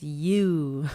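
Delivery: co-host imitating a drawled "you". Shown as a demonstration. Co-host showing how her friend's accent changes the word, drawled.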